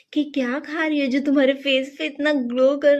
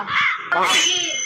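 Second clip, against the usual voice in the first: mock crying whine; 2 semitones higher, much slower than usual. Bahu whines for a new suit.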